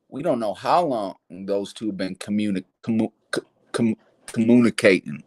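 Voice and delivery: tongue tripping over "communicating" with a lisp; stumbling lisp on "communi-, commu-, communicating". Real, not acted. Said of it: "Sorry for the lisp".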